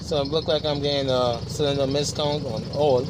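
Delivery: words rattled by engine shake; shaking voice. Real, not acted. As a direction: voice jolted by a vibrating truck. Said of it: "Sorry for the shaking up".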